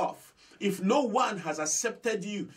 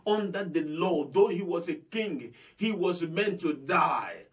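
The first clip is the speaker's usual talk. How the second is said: emphatic shout. Real, not acted. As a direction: hammer the sentence home. Preaching the law's judgment.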